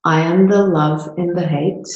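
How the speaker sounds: measured lines with long pauses, left open for repeating; guided meditation. Real, not acted. Host guided through a micro meditation to feel it, guided meditation. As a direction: lead them through it step by step. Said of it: "to do a micro meditation".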